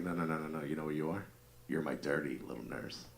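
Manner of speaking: soft, low sultry tone; soft seductive. Retold or imitated. Husband whispering dirty talk to his wife in bed. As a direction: lean in and murmur it. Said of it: "I was like".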